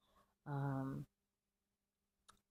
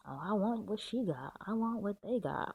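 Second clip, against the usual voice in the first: a whiny, envious voice, a little louder; mock envious whine; 5 semitones higher, 4 dB louder than usual. Tarot reader mocks an envious viewer with a louder whine. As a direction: whine like someone who wants what others have.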